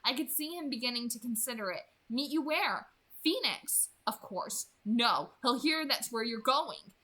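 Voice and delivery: audiobook-style reading; story narration. A narrator's reading. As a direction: read the chapter to your listeners, lightly voicing each character. Reads Twilight chapter aloud.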